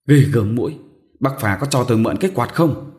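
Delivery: a sharp, loud snap; snapping. Acted. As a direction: bark it out irritably. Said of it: "gắt". (gắt gỏng, to tiếng)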